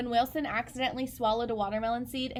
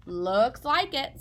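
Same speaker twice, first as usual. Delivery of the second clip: father's voice; 4 dB louder, slower than usual. Acted. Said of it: "said Chester's father".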